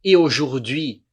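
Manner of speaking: "Et" as a bare eh before "aujourd'hui"; "Et" said as a single vowel; silent T. Shown as a demonstration. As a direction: slowly model "Et aujourd'hui", no T in "Et". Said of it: "não falo T aqui".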